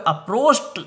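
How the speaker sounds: अप्रोस्ट said with a final t sound, not id; approached with t ending. Shown as a demonstration. Teacher showing students the t ending, clear demo. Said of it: "अप्रोचिड नहीं बोलकर अप्रोस्ट".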